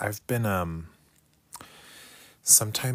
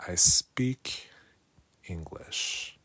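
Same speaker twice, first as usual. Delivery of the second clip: whispered aside; much slower than usual. Real, not acted. Learner whispering the translation aside. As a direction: whisper the meaning to yourself.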